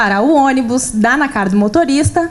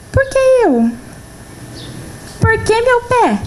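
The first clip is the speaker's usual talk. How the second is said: mock lament; 9 semitones higher than usual. Retold self-pity lament.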